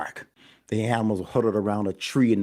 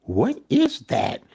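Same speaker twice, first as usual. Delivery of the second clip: scared; 12 semitones higher, 4 dB louder, slower than usual. Acted. Scared by a noise.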